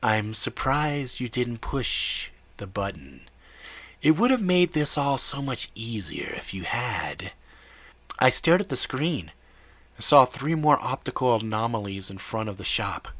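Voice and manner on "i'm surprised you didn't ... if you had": nasal whiny voice. Acted. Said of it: "said a nasal, whiny voice".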